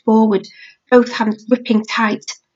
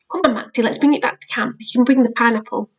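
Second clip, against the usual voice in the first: gentle coaxing; faster than usual. Acted. Lila coaxing her brother.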